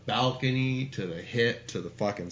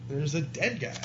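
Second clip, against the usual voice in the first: repeated insistence; 5 semitones higher, 4 dB louder than usual. Retold or imitated. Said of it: "I just kept saying that".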